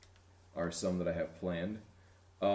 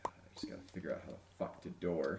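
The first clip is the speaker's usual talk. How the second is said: whispering; 2 semitones lower, 9 dB quieter, faster than usual. Real, not acted. Muttering to self while playing.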